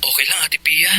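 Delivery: whispered, hiding the hurt; barely voiced, brushing it off; hushed reassurance. Juan hides being bullied. (pabulong na pagtitiis)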